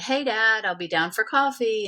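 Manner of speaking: lightly lifted, casual phone greeting; re-enacted easy hello; cheery call to Dad.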